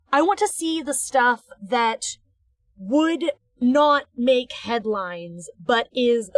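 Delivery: talking through hiccups; hiccuping between words. Real, not acted. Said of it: "sorry, I have the hiccups".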